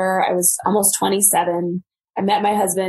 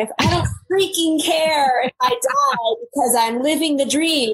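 carefree younger self; 6 semitones higher than usual. Retold or imitated. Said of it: "But I remember thinking".

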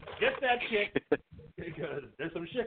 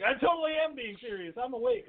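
high, earnest insisting; playful high Edith voice; mock insistent Edith; 7 semitones higher than usual. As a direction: squeak it out like a wide-awake heroine.

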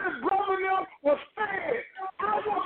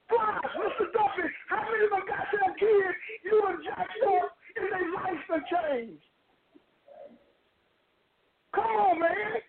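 crying shout at the coach; pleading through tears; choked cry demanding an answer; tearful. Real, not acted.

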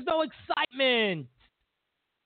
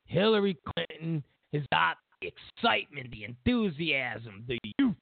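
mock gushing voter; 4 semitones lower than usual. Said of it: "you're thinking".

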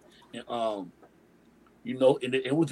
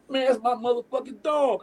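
a mock-big Suge greeting, higher and louder; imitating Suge; 7 semitones higher, 4 dB louder than usual. Suge Knight claiming him, mock-loud and proud. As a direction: Suge hyping him up in front of everyone.

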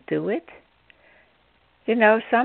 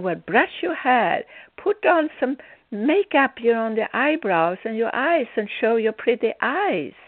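mild scolding; 3 semitones higher than usual. Retold or imitated. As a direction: firmly nag her, item by item. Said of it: "gave her more or less little hell".

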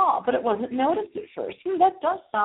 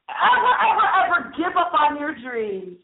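emphatic urging; 5 semitones higher than usual. Real, not acted. Urging listeners with repeated emphatic words.

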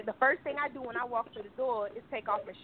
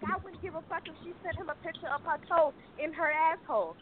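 grandmother cursing; 4 semitones higher than usual. Retold or imitated. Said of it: "she was like".

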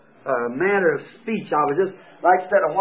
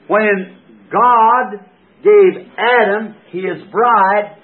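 slow, loud, climbing sermon delivery; fervent preaching; 4 dB louder, slower than usual. Acted. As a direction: preach it out, stretching each phrase. Preaching with full force.

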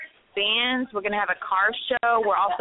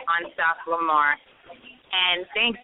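slightly winded, catching breath; 2 semitones lower than usual. Real, not acted. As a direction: talk while short of breath. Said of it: "sorry, I'm out of breath".

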